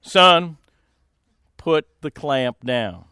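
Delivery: slow, deliberate order with long pauses; a hint of a stern surgeon, slowing down; imitated surgeon. Surgeon to shaking assistant, slow measured command. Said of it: "and he goes".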